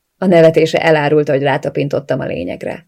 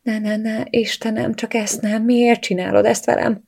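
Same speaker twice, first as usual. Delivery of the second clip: panicked; 5 semitones higher than usual. A narrator's reading. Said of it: "Pánikba estem".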